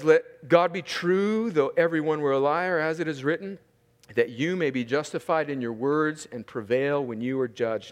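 quiet verse reading; quiet scripture reading. Acted. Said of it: "quiet scripture reading".

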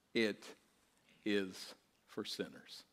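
soft and slow; hushed echo. Real, not acted. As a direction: let the words settle quietly. Echoing the pastor's words softly.

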